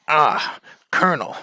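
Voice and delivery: low, halting action-hero impression; Snake. Snake confessing to the Colonel why he's spotted, mock-serious. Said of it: "the guy who voices Snake".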